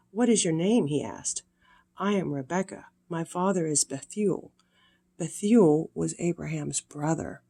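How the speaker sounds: gentle storybook reading voice; sweet old lady. A narrator's reading. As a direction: read it warmly to little ones. Reads Bible story to children.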